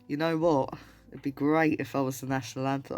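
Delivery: a hint of accidental Australian accent; John Lennon. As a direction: attempt at Liverpudlian that lands lightly Australian. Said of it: "I don't know why I sounded Australian".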